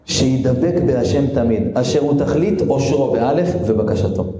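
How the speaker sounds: solemn reading. Acted. Reading the rabbi's words.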